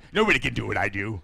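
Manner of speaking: exaggerated announcer boast; fighting game announcer. Shown as a demonstration. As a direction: ham it up like an announcer. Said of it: "exaggerating my announcer voice".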